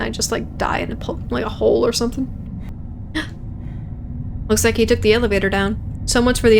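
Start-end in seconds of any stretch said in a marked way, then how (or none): 2.3-4.4 soft, breath-only gasp. Acted. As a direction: draw a long unvoiced gasp. Acted breath in the scene.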